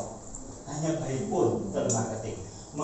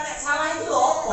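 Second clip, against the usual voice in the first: Javanese question; 8 semitones higher, 5 dB louder than usual. Retold or imitated. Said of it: "Saya hanya menanyakan".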